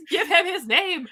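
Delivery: high, slowed rallying cry with a laugh; mock protest. Host championing the snubbed rock character, mock-demanding. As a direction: demand it like a playful chant.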